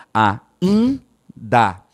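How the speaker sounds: "ainda" with a nasalized i and no separate n; teacher repeating the correct form; nasal i demo. Shown as a demonstration. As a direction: sound out "ainda" slowly and nasally. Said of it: "Então, olha, ó".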